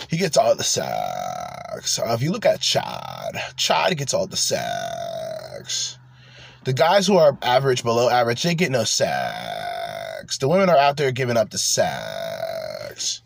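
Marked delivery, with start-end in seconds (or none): 0.1-2.0 much lower and slow, dragged-out gloomy drone; the guy's delivery. Retold or imitated. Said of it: "that's how the guy says it". 3.5-6.0 much lower and slow, dragged-out gloomy drone; the guy's delivery. Retold or imitated. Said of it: "that's how the guy says it". 8.4-10.4 much lower and slow, dragged-out gloomy drone; the guy's delivery. Retold or imitated. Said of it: "that's how the guy says it".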